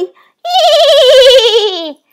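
high, loud drawn-out screech; shrill creature cry; harpy screech. Acted. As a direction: shriek as she circles.

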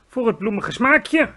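slow, loud giant's call. A narrator's reading. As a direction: call out with relish. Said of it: "riep de G V R". (langzaam en luid geroepen)

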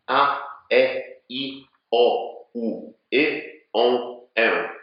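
vowels with big, exaggerated lip movement; exaggerated vowel drill. Shown as a demonstration. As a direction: stretch the lips wide on every vowel. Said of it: "Spróbujcie powtarzać ze mną". (przesadny ruch warg przy samogłoskach)

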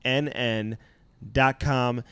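upbeat sponsor pitch; ad read. Acted. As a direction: sell it like a radio spot.

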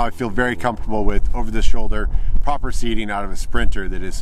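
projecting against a breeze; shouting over wind. Real, not acted. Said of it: "Hopefully you can hear me over the wind noise".

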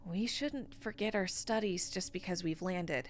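prim. Acted. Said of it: "she says primly".

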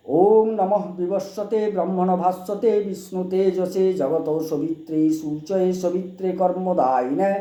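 slow, chanted Sanskrit prayer; mantra recitation. Shown as a demonstration. Teaching viewers the Surya arghya mantra, slow chant. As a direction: intone the sun offering devoutly.

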